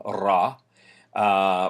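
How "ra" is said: ra trilled with the tongue tip; rolled r. Shown as a demonstration. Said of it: "you trill it with the tip".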